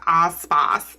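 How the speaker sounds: vowels slipping into a stray accent, "Ice Spice" like "Ahs Spahs"; accidental drawn-open "ah" accent on "Ice Spice"; odd accidental accent. Real, not acted. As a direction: let an unplaceable accent flatten both vowels in "Ice Spice" to "ah". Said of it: "I don't know what that accent was".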